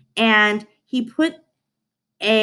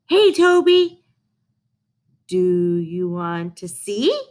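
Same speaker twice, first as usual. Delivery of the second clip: eager call; slower than usual. Acted. Mona calls eagerly to the dog.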